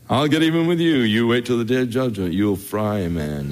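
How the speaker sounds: mock threat. Preacher voicing what Christ never said to revilers, mock threat. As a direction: play a petty avenger promising judgment day. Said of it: "he did not threaten".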